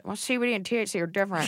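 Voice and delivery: a teasing, pedantic correction voice; mocking co-host. Teasing her co-host, she mimics his fussy correction. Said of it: "to chime in with some information like you just".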